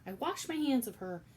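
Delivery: loud, high shouted dismissal; shouting. Acted. Louise shouting at Cook, loud and dismissive. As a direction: bellow it like washing your hands. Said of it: "Louise was shouting".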